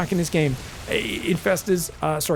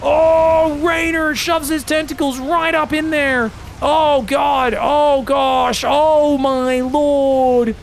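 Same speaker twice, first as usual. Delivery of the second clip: much higher, louder yelling that builds; excited shout; 8 semitones higher, 4 dB louder, much slower than usual. Real, not acted. Caster erupting at a huge ambush, shouting high and loud. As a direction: scream the play as it explodes.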